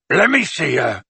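restrained gruff-giant shout; shouted demand. A narrator's reading. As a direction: demand room to get through. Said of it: "shouted Hagrid".

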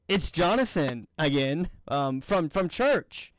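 halting retold self-introduction; clarify who you are, tentatively, with stumbles; hesitant clarification.

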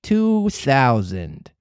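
very slow sinister echo; slow cat echo; creepy cat echo. Acted. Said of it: "repeated the cat".

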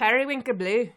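playful go at an Irish accent; attempted Irish accent. Shown as a demonstration. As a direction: try out an Irish accent on the phrase. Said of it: "My Irish accent's not that bad".

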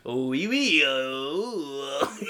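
half-hearted, hammed-up French; bad French accent. Shown as a demonstration. Contestant pushed into a skunk impression, faked French accent. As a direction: attempt a silly French skunk. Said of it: "Do your French accent".

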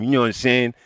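barely-there rapper catchphrase voice; a faint rapper's catchphrase, showing he can say nothing else. Acted. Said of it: "in a fifty Cent voice".

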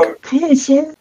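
high, faint voice; high whisper-like call to come near; dying woman's plea. Acted. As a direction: beckon weakly, high and thin.

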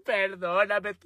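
high, slow whiny begging, hammed-up crying; mock sobbing plea. Boyfriend sobbing to police, high hammed-up wail. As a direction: wail it like a crybaby. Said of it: "Llore y llore".

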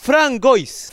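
Frangois sounded out as written, "fran-GOIS"; spelled-out pronunciation. Shown as a demonstration. Co-host trying out a donor's name, Frangois as spelled. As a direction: try Frangois with hard g and "ois". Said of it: "para ver cómo".

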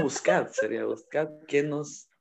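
mock Castilian; Spain accent with Z. Correcting his own joke, in a mock Spain accent. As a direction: have another go in a put-on Spain accent. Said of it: "¿Por qué estás hablando con la Z?".

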